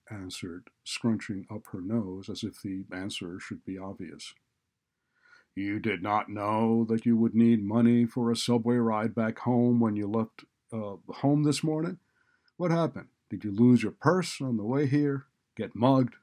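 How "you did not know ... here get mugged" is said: loud sarcastic questioning; scornful interrogation at raised volume; sarcastic, hurtful. A narrator's reading. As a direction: pile on mocking questions, voice raised. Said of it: "His tone was sarcastic and unnecessarily hurtful".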